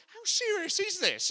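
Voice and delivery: high, loud, slow worried cry; alarmed Philippians. Retold or imitated. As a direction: panic as if the letter brings bad news. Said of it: "they're thinking".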